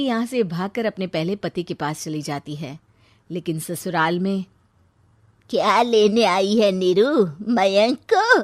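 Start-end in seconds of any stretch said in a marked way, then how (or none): 5.5-8.4 angry confrontation. Acted. Mother-in-law confronts returning Neeru.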